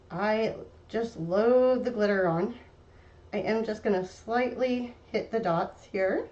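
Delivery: talking around a paintbrush held in the mouth; words slurred by a brush in the teeth. Real, not acted. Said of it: "I'm talking with a paintbrush in my mouth".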